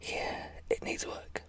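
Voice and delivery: whispered, chatty ASMR voice. Real, not acted. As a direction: whisper it all, confiding in the listener. Whispered ASMR chat before the demo.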